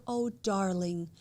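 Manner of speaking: slow, imitated soothing; retold motherly sympathy; tender comforting. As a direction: draw it out to comfort someone in tears. Voices guest comforting crying host.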